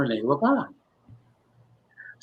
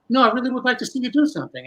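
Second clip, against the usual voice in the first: insistent Rene; 8 semitones higher, faster than usual. Retold or imitated. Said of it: "And he says to me".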